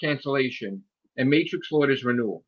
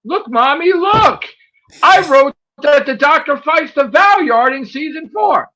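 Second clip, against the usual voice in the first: put-on high, slower, squealing child voice; excited little kid; 10 semitones higher, 7 dB louder, slower than usual. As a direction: show off to mommy like an overexcited kid. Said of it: "he's excited about what he wrote".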